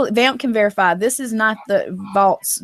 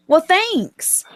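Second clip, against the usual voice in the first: sarcastic thanks; 8 semitones higher than usual. Retold or imitated. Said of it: "lately have been like".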